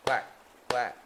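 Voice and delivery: short duck quacks; two quick quacks. Pretend. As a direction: quack like a duck between verses. Duck quacks inside the song.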